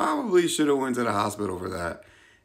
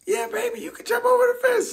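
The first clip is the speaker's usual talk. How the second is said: much higher, fast, sweet mom voice; hammed-up doting mother egging him on; imitating mom; 4 dB louder, faster than usual. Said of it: "And she was like".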